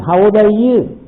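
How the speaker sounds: put-on "How old are you?" with a small lift at the end; question rise. Shown as a demonstration. Teacher repeating a sample question for students, question rise. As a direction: let the pitch go up a little by the end of "are you". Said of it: "intonation that goes up a little bit by the end".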